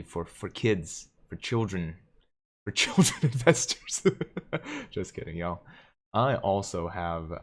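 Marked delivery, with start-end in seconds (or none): 2.6-4.9 louder, higher, breaking into laughter; laughing. Real, not acted. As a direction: crack up at your own joke mid-phrase. Cracks up at own joke.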